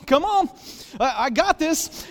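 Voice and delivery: high, cocky fight talk; hyped-up guy ready to fight; mock pumped-up taunt. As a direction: puff up like a boxer.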